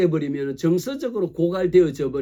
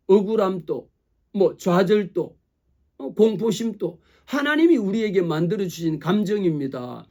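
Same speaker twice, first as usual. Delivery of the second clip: usual speaking voice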